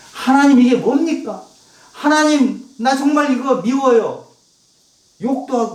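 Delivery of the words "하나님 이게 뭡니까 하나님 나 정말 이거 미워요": raised voice, crying out to God; pleading complaint to God. Retold or imitated. Preacher voicing David lamenting to God. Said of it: "하나님께 하소연했어요".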